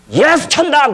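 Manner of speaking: high ringing call of 예수 천당; evangelist's call at dawn; street preacher's call. Retold or imitated. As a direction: cry it out across the street at dawn.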